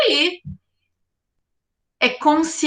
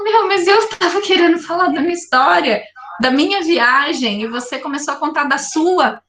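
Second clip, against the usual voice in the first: frustrated protest; 5 semitones higher than usual. Acted. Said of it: "Aí você falou".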